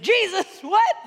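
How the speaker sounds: high, loud yell rising at the end; screaming match. Acted. Stranger answering Norm's preaching, screaming. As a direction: yell back in disbelief. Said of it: "they begin a screaming match".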